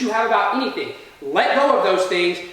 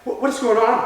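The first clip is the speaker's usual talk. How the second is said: raised-pitch, stammered startled question; retold freak-out; 4 semitones higher than usual. Teller jolted off the couch by banging, mildly panicked. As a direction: act out mild panic on waking. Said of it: "I'm freaking out".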